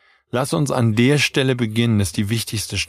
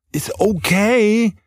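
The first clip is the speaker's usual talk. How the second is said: drawn-out, much higher, gentle "Ist okay"; forgiving okay; 10 semitones higher, much slower than usual. Acted. Partner forgives a forgotten errand, slow high gentle reassurance.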